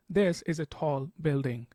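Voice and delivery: slow, with "tall" drawn out; slow demonstration leaning on the word "tall"; stress on "tall". Shown as a demonstration. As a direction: give "tall" the emphasis in a slow rhythm. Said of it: "emphasizes more on the word tall".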